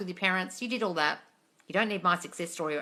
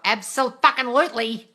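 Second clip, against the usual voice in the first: emphatic yes; 5 semitones higher, 9 dB louder than usual. Real, not acted. Emphatic answer to viewer question.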